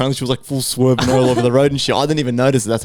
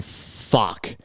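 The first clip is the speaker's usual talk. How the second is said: despairing whisper; 3 semitones lower, 8 dB quieter than usual. Retold or imitated. Stranded on highway, despairing.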